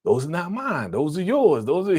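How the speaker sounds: hammed-up pleading denial; Bobby's panicked denial. Bobby denying the drawers to his fiance, panicked. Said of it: "He's like".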